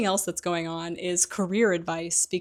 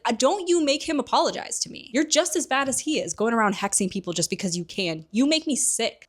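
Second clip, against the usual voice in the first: high, loud indignant scolding; angry retort; 5 semitones higher, 4 dB louder than usual. Retold or imitated. Lily scolding James for hexing people, high angry retort. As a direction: tear into him, disgusted.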